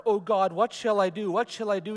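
anguished cry. Acted. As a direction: cry it out, a guilt-stricken man breaking. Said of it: "he cried".

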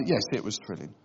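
newlyweds playing down a trip that thrilled nobody; bored honeymooner. Imitating a bored newlywed answering a question about the honeymoon. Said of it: "where they're just bored already".

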